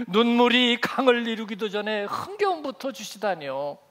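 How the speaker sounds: a hint of a wronged son in a costume drama, protesting; historical drama protest. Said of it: "사극을 좀 봐야 이게 감정이입이 되는데".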